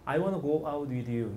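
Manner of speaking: slow, carefully spaced "I wanna go out with you"; teacher slowly modelling the English line; slow demo. Shown as a demonstration. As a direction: say it word by word for students. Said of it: "선생님이 이 친구한테".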